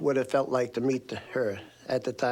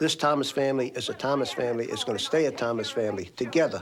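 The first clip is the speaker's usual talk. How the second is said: usual speaking voice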